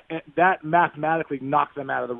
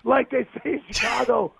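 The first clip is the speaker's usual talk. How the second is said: yelling to the bar; 9 semitones higher, slower than usual. Retold or imitated. Player taunting Cub fans in a bar, high slow yell. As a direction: bellow it across a packed bar, gloating. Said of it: "and I yell".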